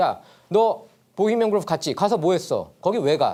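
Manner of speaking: high, loud, pushy, hard-pressing reporter voice.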